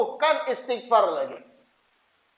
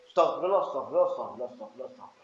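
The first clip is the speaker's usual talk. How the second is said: low rapid mumble fading to near silence; mindless istighfar; 10 semitones lower, 6 dB quieter, much faster than usual. Shown as a demonstration. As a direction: rattle it off with a wandering heart. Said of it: "dibanyaki wara, tapi hati gak".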